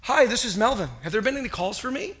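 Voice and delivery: mildly acted unruffled phone voice; calm and cool. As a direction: play it cool, as if nothing happened. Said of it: "the father said calmly and coolly".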